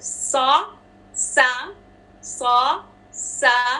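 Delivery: सॉ heavy, सा light, both whistled; saad and seen contrast. Shown as a demonstration. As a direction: alternate सॉ and सा with the whistle. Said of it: "दोनों में whistle है".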